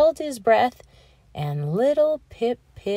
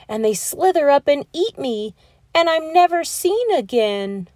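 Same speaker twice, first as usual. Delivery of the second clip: scared little Pip-Pip; 2 semitones higher than usual. Acted. Little Pip-Pip begs his mommy, fearful child's voice.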